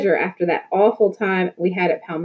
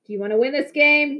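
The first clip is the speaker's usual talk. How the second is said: shouting again; 7 semitones higher than usual. A narrator's reading. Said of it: "Victor shouted".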